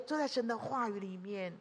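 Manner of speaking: gentle echo of 都在神的话语里面; soft echo. Real, not acted. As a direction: drop it to a hush.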